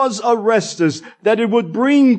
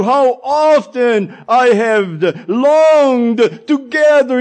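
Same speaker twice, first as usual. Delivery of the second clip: crying out; 4 semitones higher than usual. Acted. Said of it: "as he cried out in a loud voice".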